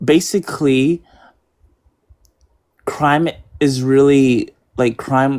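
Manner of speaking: halting, anxious, stuttering, nervous speech. Speaker pressed for crime numbers answers: nervous, stuttering. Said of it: "I'm a bit nervous".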